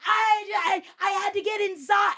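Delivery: very high, stammering mock excuse; flustered excuse. Bad parker excusing herself, high and hurried. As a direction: blurt it fast in a mocking high pitch. Retold excuse of confronted driver.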